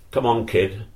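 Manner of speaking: lightly imitated Forest accent; a hint of Forest accent on the summons. Bumps fetching the young player, in a Forest accent. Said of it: "in his typical Forest accent".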